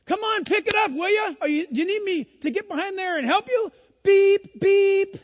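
impatient cusser. Retold or imitated. Preacher imitating the cursing man in the Starbucks line, hammed-up grumbling. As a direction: ham up the impatient guy in line. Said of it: "he's saying".

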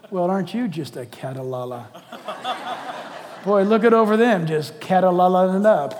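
teasing, laughing through mock scolding; playful laughing jab. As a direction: poke fun while laughing. Mocking use of gossip word.

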